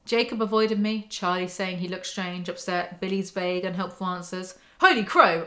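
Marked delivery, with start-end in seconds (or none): 4.8-5.4 excited exclaim. Real, not acted.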